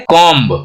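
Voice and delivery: कॉम्ब with the final B voiced; sounded B. Shown as a demonstration. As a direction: say "kom-b", releasing the B in कॉम्ब. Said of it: "ये कॉम्ब गलत pronunciation है". (कॉम्ब का ब साफ़ सुनाएँ)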